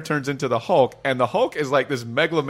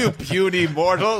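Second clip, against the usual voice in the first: dragon voice; 4 semitones higher than usual. Retold or imitated. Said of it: "puny insect".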